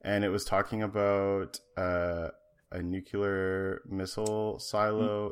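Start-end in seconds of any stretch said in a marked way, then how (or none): 2.8-3.8 "nuclear" said as NOO-kyuh-ler; mispronounced "nuclear". Real, not acted. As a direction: slip an extra U into "nuclear". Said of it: "They say nuclear 'cause there's apparently another U".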